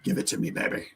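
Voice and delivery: breathy whispered come-on. Real, not acted. Co-host whispers to the host, ready for the question. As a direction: whisper it like a tease.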